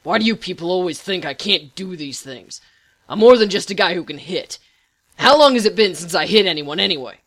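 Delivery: loud, exasperated outburst; frustrated. A narrator's reading. Patient defending himself to his therapy group, frustrated. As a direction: protest angrily, punching the words out loud. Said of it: "scrunched up in frustration".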